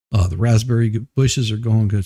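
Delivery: panting slightly between words; out of breath. Real, not acted. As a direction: talk like you just rushed back. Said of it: "Sorry, I'm a little out of breath".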